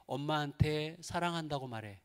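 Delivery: quiet inner voice. Retold or imitated. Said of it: "갑자기 하나님께서".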